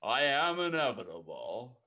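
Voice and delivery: Thanos. Acted. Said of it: "I just have to say that".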